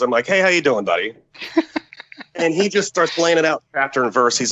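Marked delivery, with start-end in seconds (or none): 0.3-1.1 put-on old drinking buddy. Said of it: "he and I are old drinking buddies".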